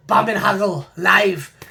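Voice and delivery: slow, hammed-up German accent, half laughing; mock German accent. Reading a band's EP title to viewers in a mock German accent. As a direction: lean into a playful German accent on the title. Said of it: "That's my German accent".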